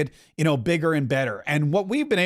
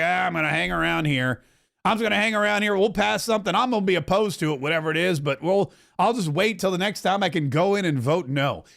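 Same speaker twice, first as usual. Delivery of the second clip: Tim Burchett impression. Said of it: "And Tim Burch is like".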